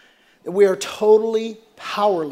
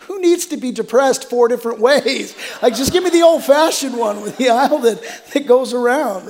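laughing comedian quote; 2 semitones higher than usual. Retold or imitated. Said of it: "And he's like".

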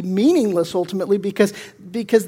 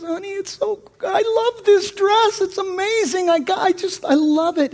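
mock wife voice; 11 semitones higher than usual. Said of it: "She says".

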